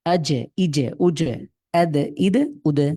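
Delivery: আজ, ইজে, উজে with the j pressed and released; doubled j and d with a short echo vowel, as in আজ and আদ; echoing bounce. Shown as a demonstration. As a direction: let the d rebound in আদ, ইদ, উদে. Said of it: "একটু প্রতিধ্বনি করে".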